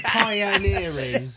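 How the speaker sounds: Pioneering said very slowly, syllable by syllable, O turned to A; slow demo pronunciation. Shown as a demonstration. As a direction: draw Pioneering out slowly as pie-a-neer-ing. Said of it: "change the O to an A and then it'll flow better".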